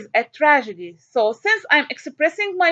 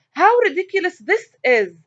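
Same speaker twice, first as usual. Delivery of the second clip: exclamation read; 5 semitones higher than usual. Shown as a demonstration. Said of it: "it's expressing strong feelings".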